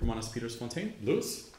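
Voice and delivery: unnaturally deep voice from gas. Real, not acted. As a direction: speak as if deepened by gas. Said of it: "why does your voice sound so deep this week".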